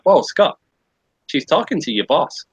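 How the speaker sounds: retold heads-up, mildly alarmed; alarmed warning. Friend warning Scott she is at his boss, alarmed.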